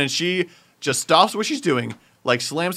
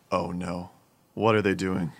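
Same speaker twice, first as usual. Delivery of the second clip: worried coworker; 6 semitones lower, 3 dB quieter than usual. Retold or imitated. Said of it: "the tone in her voice".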